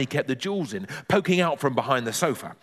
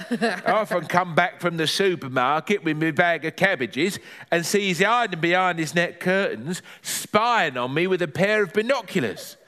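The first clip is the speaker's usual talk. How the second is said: lightly voiced granny, higher pitch; granny moaning about being spied on; Granny figure, complaining; 4 semitones higher than usual. Granny complains of neighbour behind net curtains, higher granny voice.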